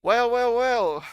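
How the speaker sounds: smug and loud; gloating. Acted. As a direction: savour catching him out. Catching a lie in notes.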